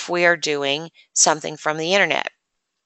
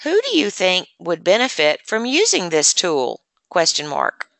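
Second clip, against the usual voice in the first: dictating. Shown as a demonstration. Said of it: "anytime I say exclamation point".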